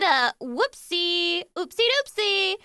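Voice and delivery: put-on high, slow baby-talk "oopsie doopsie"; mock whoopsie. Cohost mocking the mod's blunder, high and cutesy. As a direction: tease it like a cutesy little oops.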